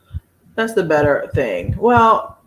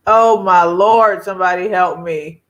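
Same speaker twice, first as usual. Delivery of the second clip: exasperated; 4 dB louder than usual. Real, not acted. Overwhelmed by sale chat.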